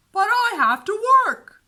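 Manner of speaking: exasperated big brother. A narrator's reading. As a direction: protest like a frazzled older brother. Henry voiced, pleading.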